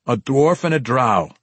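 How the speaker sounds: dry, unimpressed repeat; deadpan. Acted. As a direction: say it flat, bored of repeating. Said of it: "the guard deadpanned".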